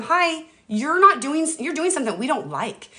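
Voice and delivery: a light mock high voice for the body; body telling you it dislikes something; voicing the body. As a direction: speak as the body with a gentle warning. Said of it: "our body saying".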